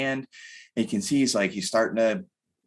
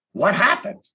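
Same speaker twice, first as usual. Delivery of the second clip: put-on much higher and louder, an eager kid's question; 9 semitones higher, 6 dB louder than usual. An eight-year-old son greeting his fireman dad, excited. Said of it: "he's just stoked".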